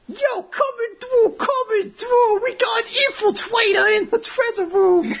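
Yankee punk voice. Acted. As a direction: call it out like a cocky punk. Voicing Angles the Yankee.

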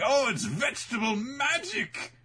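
high, slow, gushing cartoon wonder; amazed gushing. Workers marvel at the magical transformation, gushing. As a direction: squeal it like a dazzled anime girl.

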